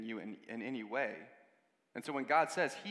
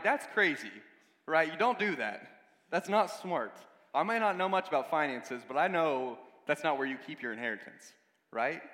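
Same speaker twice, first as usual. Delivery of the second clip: louder, mock scandalized disbelief; half-laughing 'who does that' protest; incredulous outburst; 2 semitones higher, 6 dB louder than usual. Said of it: "we're like".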